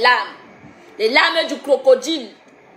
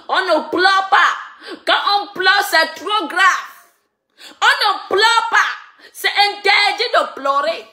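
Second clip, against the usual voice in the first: singsong scolding, pitched up; mocking scold; 5 semitones higher than usual. Real, not acted. Mocking chant at crying rival. (gronderie moqueuse)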